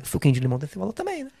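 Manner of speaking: quick lisped line, s slurred toward sh; lightly voiced lisping Renan; slushy sh for s. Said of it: "eu falava sempre essa frase". (língua presa do Renan)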